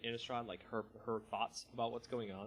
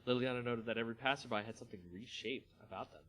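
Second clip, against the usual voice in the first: steady storyteller reading a fantasy tale; story narration. A narrator's reading. Narrator reading a Magic story to viewers, measured storytelling. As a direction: read it like an audiobook narrator.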